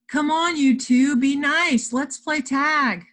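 put-on high, loud, pleading child voice; coaxing. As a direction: urge squabbling friends to play. Child coaxing quarrelling friends.

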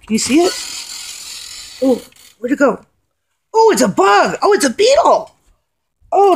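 high-pitched startled exclaiming. Real, not acted. Spotting a big moth mid-song, high and startled. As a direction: react to the huge moth with alarm. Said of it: "there's a moth".

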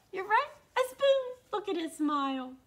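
high loud delighted; excited. Acted. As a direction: cheer the right answer. Excited reveal.

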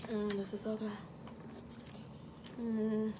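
talking while eating corn; muffled chewing between words; mouth full, chewing. Real, not acted. Seen 4: woman bites and chews corn cob throughout labelled words.

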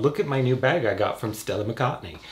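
put-on British English accent. Shown as a demonstration. Showing what people don't do, mock British accent. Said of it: "That's my British accent".

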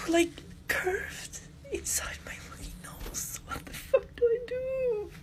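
high, soft, crying plea; desperate crying question; tearful despair. Real, not acted. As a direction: sob out the question. Crying at curved bar.

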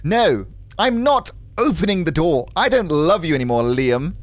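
lightly acted posh English refusal; posh English woman standing her ground; posh English accent. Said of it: "very posh English accent".

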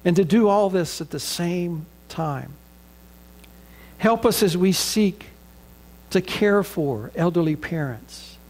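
earnest pastor's prayer, measured and reverent; closing prayer. Acted. Pastor praying for the congregation's families, reverent prayer voice. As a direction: pray it over the congregation, steady and sincere.

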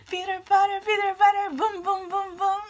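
high, loud pitter-patter chant; heartbeat imitation. Reader voicing her pounding heart, high and loud. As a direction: mimic a racing heartbeat. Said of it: "my heart is like".

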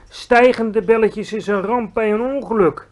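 put-on a giant scolding a silly girl; exasperated giant. Giant lecturing Sophie about bubbles, exasperated.

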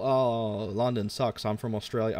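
lightly attempted Australian accent; mock heel with a hint of bad Australian; failed Australian accent. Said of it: "I can't do an Australian accent".

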